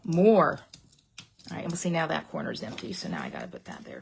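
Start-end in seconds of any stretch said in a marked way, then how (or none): 0.0-0.6 mock fan demand. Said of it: "It's like".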